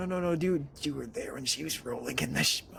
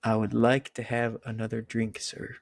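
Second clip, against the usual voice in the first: a plain American accent, lightly stressed on like; American accent demo. Shown as a demonstration. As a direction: model the American accent for her. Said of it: "one sentence in your best American accent".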